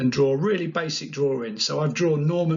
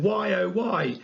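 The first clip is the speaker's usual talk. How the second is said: higher, mock-lamenting cry; lightly hammed-up lament; wailing spanner; 5 semitones higher, slower than usual. Spanner turning up at a collapsed stage, mock lament. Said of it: "random spanner's just turned up and it's going".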